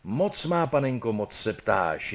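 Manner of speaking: a lightly voiced dead lover reciting verse; ballad ghost. Dead man urging his bride along, lightly voiced. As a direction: recite the ghostly groom's lines with gentle menace.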